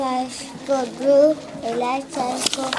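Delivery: fast, run-together read; child reading the sentence fast for the teacher; fast on request. Shown as a demonstration. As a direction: rattle it off quickly as asked. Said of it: "Now say it fast".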